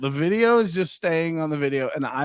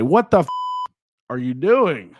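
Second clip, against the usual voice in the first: mild mock yell; 5 dB louder than usual. Shown as a demonstration. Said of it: "I might say".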